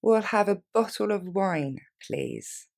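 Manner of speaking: slow and clear, every word laid out; slowly. Shown as a demonstration. Teacher modelling the order for learners, slowly. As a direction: spell it out slowly for the class. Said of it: "On la reprend lentement".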